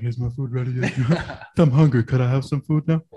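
laughing through a hungry plea from outside; laughing mock whine. Outside the restaurant, calling to staff, laughing and pleading. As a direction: plead for food while cracking up. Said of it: "I'm like".

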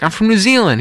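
high-pitched indignant correction; mock offended. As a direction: correct them as if insulted, in jest. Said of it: "he got all offended".

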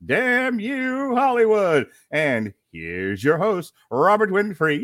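booming circus ringmaster announcement; loud, grand showman introduction. Acted.

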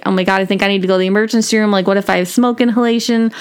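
rapid, mildly anxious rush; retold panic attack. Retelling a call to grandma, mildly panicked. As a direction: hurry through it as a lightly acted panic. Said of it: "having a panic attack".

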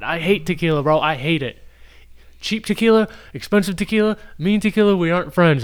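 high, whining complaint about tequila; whiny frat bro. Real, not acted. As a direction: whine like a bro dreading it.

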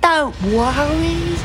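high, slow put-on voice for the father; father's voice. A narrator's reading. Father figure voiced in story.

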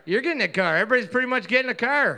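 lightly voiced talk show host giveaway; Oprah. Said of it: "some Oprah lines".

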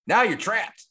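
high, punchy mock-dramatic announcement; dramatic exclamation. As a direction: announce the trap with a jump in pitch. Exclaims the kids' predicament in retelling.

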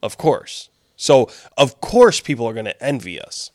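sarcastic boast in an even voice. Real, not acted. Co-host agreeing that everyone must envy America, sarcastic. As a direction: play smug certainty, not meaning it. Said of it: "It sounds like you said this sarcastically".

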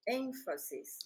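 "énfasis" carefully, stressed on the first syllable; corrective pronunciation. Shown as a demonstration. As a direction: model "énfasis" for a learner, stress on EN. (énfasis con el acento en la primera sílaba)

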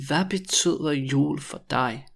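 measured, careful question; slow demonstration. Shown as a demonstration. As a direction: ask it slowly for learners. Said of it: "when I say it really slowly".

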